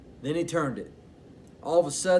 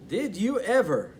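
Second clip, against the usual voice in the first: higher, louder amazed grandma; grandma amazed at the passing duck; gasped; 7 semitones higher, 4 dB louder than usual. Acted. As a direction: gasp it in disbelief. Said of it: "Grandma gasped".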